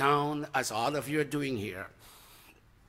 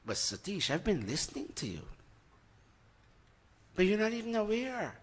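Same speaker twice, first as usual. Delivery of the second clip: soft, smiling gentle reply; smiling God; 5 semitones higher, 7 dB quieter, faster than usual. Acted. God gently reassuring the devotee, softly smiling. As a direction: answer kindly, a smile in the voice. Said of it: "he's telling you smilingly".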